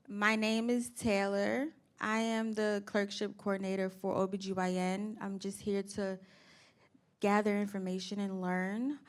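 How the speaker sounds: steady, assured self-introduction; confident. Real, not acted. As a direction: introduce yourself like the president. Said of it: "tell us with confidence".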